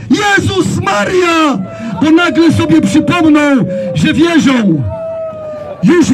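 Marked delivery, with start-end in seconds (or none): 0.1-1.6 drawn-out, half-sung mock cry; slow, sing-song cry of panic; sung-out mocking wail. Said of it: "które będą krzyczeć".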